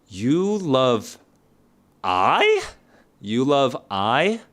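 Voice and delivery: You love I said slowly with a questioning rise on I; mock-doubtful wrong form. Shown as a demonstration. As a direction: test the wrong version with a puzzled rise. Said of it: "Is this grammatically correct?".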